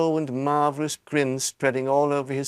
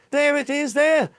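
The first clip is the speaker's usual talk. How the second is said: high, loud shout pointing it out; 12 semitones higher, 4 dB louder than usual. A narrator's reading. Someone in the crowd shouts, high and loud. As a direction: point and yell. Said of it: "someone else shouted".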